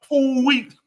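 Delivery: high, drawn-out movie catchphrase; hammed-up disguise voice; Total Recall imitation. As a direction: imitate the film line, stretching the words. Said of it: "remember Total Recall?".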